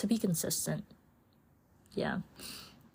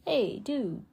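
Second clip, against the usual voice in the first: lightly voiced chill dude; higher, casual bro nudging you to bed; a hint of a surfer dude urging sleep; dude-speak body voice; 5 semitones higher than usual. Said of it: "It's like".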